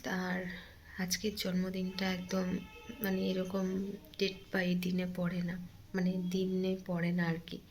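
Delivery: hushed grief for an absent mother; hurting, subdued. Real, not acted. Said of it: "আর সেই কারণে প্রচণ্ড কষ্ট হচ্ছে". (চাপা গলায়, কষ্ট নিয়ে আস্তে বলা)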